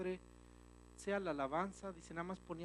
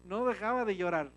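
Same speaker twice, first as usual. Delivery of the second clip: loud, higher preaching shout; a sudden burst of fervent preaching; preacher's outcry; 4 semitones higher, 12 dB louder than usual. Real, not acted. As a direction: belt it out to the congregation. Preacher climax about weeping.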